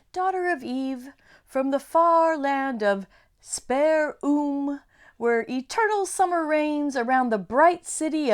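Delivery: lightly voiced grand faun; grand fawn. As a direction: announce it grandly. Fawn dialogue.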